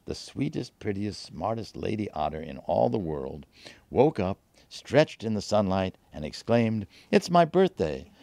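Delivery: playful storyteller, pitch leaping at the end; children's book tone. A narrator's reading. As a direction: read it like a tale for little children. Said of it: "in my best children's book tone".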